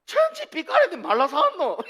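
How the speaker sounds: high and loud Gyeongsang grumble; Gyeongsang dialect man. Retold or imitated. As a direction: bark it like a gruff Gyeongsang man refusing a gift. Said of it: "표현을 어떻게 하냐면".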